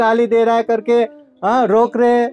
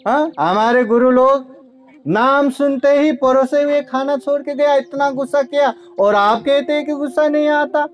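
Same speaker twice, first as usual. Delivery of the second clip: higher, lightly voiced indignant disbelief; indignant Brahmin; 5 semitones higher than usual. Angry Brahmin disbelieving Buddha's calm, higher indignant voice. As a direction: protest it like an incredulous man, pitched up.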